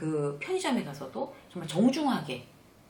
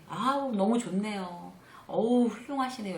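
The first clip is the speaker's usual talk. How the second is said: drawn-out, appreciative compliment; admiring exclamation; 3 semitones higher than usual. Shown as a demonstration. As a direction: demonstrate marvelling at someone. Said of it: "이렇게 감탄해 주는 거".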